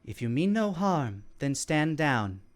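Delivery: calm, flat monotone voice. Acted. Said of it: "in a very calm, monotone voice".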